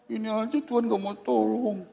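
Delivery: exasperated complaint. Retold or imitated. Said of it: "Makanya saya bilang".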